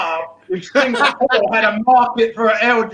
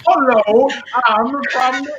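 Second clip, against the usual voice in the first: bad English accent. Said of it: "I would not dare try to English accent".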